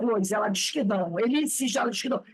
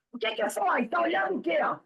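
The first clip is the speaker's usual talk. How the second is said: mother's challenge; 7 semitones higher, much faster than usual. Retold or imitated. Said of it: "a mãe dá aquele olhar e pergunta".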